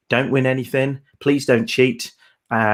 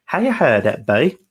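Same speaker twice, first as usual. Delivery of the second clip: lightly imitated Suffolk dialect catchphrase; a touch of broad Suffolk; Suffolk accent; 3 semitones higher than usual. Host quotes co-presenter's word-of-the-week catchphrase, Suffolk accent. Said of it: "as Paul says".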